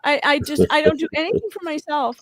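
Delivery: mock-tearful martyr voice, rising in pitch and sagging; exaggerated crying impression; the speaker's signature crying. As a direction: put on a hammed-up weepy self-pity, faltering between pleas. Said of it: "she does her signature crying".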